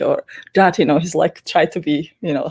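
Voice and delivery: ordinary delivery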